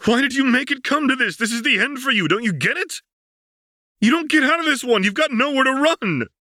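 loud, high and fast; high loud desperate outburst; anguished shouting. Acted. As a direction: plead by yelling at her. Vi pleading, shouting.

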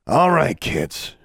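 wearily calling off a squabble; weary. A narrator's reading. Journey to two bickering kids, weary. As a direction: start high, then sag tiredly. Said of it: "Journey said wearily".

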